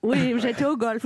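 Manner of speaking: light posh voice; snooty golf-club tone; plummy voice. Shown as a demonstration. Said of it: "Avec une patate dans la bouche".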